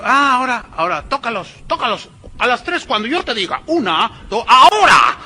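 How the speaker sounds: high stage voice, building to a loud final call; mock faith-healer countdown. Faith healer counting down before knocking people over, building mock shout. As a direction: count them down to fall.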